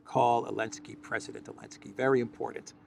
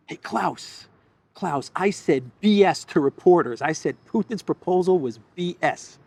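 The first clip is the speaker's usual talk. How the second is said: higher, louder, eager mock voice; mock eager caller; 6 semitones higher, 6 dB louder than usual. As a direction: play a proud schoolboy reporting to his boss. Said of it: "he called Klaus Schwab".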